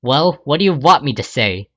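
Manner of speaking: a touch of annoyance; annoyed. Acted. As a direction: snap back, mildly irritated. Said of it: "You remark in an annoyed tone".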